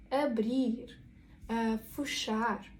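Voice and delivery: drawn-out final syllables in "ебрір" and "фушар"; наголос на останній склад. Shown as a demonstration. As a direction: stress the endings of "ебрір" and "фушар". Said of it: "наголос також буде падати на останній склад". («ебрІр», «фушАр»: наголошене закінчення)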